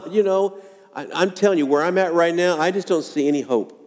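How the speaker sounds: lightly voiced father losing hope; doubt and despair. Preacher voicing the boy's father to Jesus, mildly despairing. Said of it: "the doubt and despair in this dad's voice".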